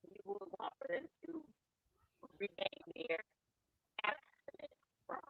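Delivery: choppy robotic connection; glitchy voice over a bad line. Real, not acted. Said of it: "you sound robotic to me".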